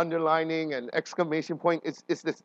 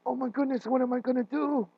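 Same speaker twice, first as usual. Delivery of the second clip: higher, mock-panicked cry; lightly hammed-up alarm, pitched up; panicked Isaiah; 8 semitones higher than usual. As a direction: play Isaiah suddenly realizing he's doomed. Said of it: "he's like".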